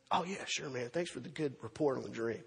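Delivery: low, soft, casual brush-off; offhand agreement. Acted. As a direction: toss off a careless promise under the breath. Cupbearer brushes off Joseph's request.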